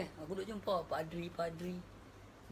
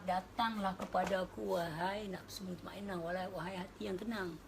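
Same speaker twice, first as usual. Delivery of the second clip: slow, calm summons; divine invitation. Retold or imitated. God calling the tranquil soul, slow and calm. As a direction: call gently and slowly. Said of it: "Tuhan bercakap".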